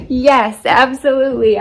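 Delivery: loud, emphatic retold agreement; eager yes. Gardener retelling her answer to sister-in-law, eager agreement.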